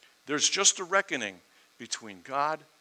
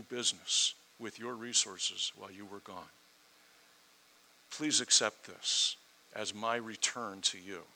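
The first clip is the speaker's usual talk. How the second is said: respectful; 4 semitones lower, 7 dB quieter than usual. Retold or imitated. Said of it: "it's respectful".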